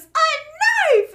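high, very loud mock boast; triumphant boy impression. Little boy answering his mom, triumphant imitated shout. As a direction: crow it like the Vine's little boy. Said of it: "he just says it so, like, triumphantly".

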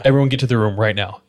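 quick, mildly stern retold order; retold stern command. D ordering cousins to their rooms, brisk stern command. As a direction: imitate someone brooking no argument, brisk. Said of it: "he's not hearing any of it".

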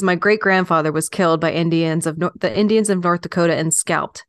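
lightly put-on old West storyteller accent; L'Amour's accent. Reading out Louis L'Amour's life story, in a light put-on accent. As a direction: slip gently into a folksy Western accent. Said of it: "I'm loving the accent".

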